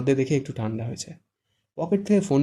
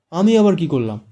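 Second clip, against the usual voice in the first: higher, louder helpless protest; 4 semitones higher, 8 dB louder than usual. A narrator's reading. Shahed protests to Fara, higher and helpless. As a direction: plead innocence, pitched up. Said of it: "অসহায় মুখ করে বলল".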